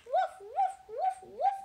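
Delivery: high, loud barking woofs; dog bark. Acted. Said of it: "barked the dog".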